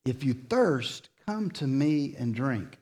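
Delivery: tender invitation after the booming quote. Shown as a demonstration. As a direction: offer it quietly, face to face. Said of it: "repeats the invitation softly".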